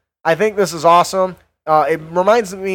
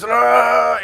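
mock punch grunt; 7 semitones higher than usual. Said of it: "They're just".

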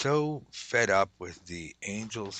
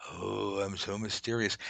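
mock mysterious; slower than usual. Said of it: "the normal pagan way".

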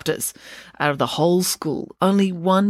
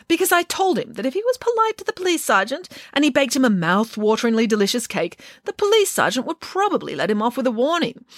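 a lightly voiced, higher indignant nanny; Nanny Piggins voiced; 6 semitones higher than usual. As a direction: tell it with grand outrage, a touch higher. Nanny tells the ending.

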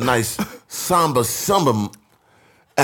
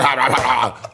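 mock laughter; 2 semitones higher, faster than usual. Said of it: "she laughing".

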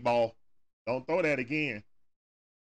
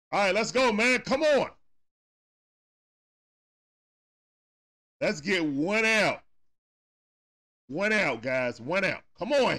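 higher, louder rallying cry; excited cheering; 5 semitones higher, 4 dB louder than usual. Real, not acted. Fan cheering his team from the couch, loud and excited. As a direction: pump up the team.

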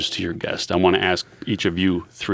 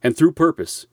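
measured, formal announcer read; formal disclaimer read. Acted.

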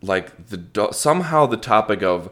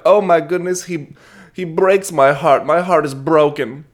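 high, loud, hammed-up heartbroken little girl; cartoon swoon; 7 semitones higher, 4 dB louder than usual. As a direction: wail it theatrically, imitating a lovestruck child. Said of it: "did a cartoon feint".

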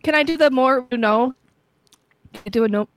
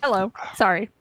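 mouth full. Real, not acted. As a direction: still chewing while talking. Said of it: "I'm eating".

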